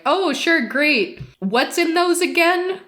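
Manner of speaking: high, breezy imitation of a bartender; cheery bartender. Bartender asking customer about a White Russian, cheery and high. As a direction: play an agreeable bartender asking casually.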